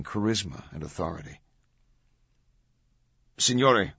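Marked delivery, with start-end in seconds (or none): 3.4-3.9 high, loud, respectful protest; apologetic but unyielding. A narrator's reading. Officer addressing his superior, apologetic but unyielding. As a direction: apologize without giving way. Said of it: "his tone apologetic but still unyielding".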